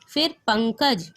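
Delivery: पंकज drawn out with a nasal ng; teacher spelling out an example word; slow nasal example. Shown as a demonstration. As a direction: slowly sound पंकज through the nose. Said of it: "प में अनुस्वार लगा है".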